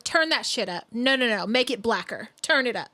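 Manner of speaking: loud, pushy mock order from a boss; mock shouting boss. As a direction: bark it like a pushy exec. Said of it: "They were like".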